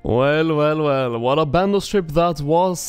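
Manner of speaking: groggy just-woke-up voice; sleepy morning voice, a bit rough. Real, not acted. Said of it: "I have the morning voice right now".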